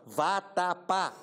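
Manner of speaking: "Vá tapar" drawn out slowly with nose held; slow demo. Shown as a demonstration. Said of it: "tu pode dizer assim". (pronúncia lenta de nariz tapado)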